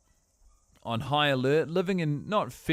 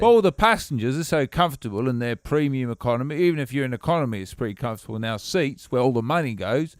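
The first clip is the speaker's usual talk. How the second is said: put-on English accent. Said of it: "talking like this".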